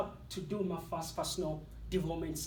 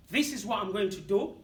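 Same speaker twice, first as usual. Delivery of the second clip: telling voice off. Retold or imitated. Answering his negative self-talk, firm dismissal. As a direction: dismiss the inner critic firmly. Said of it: "I say to the voice".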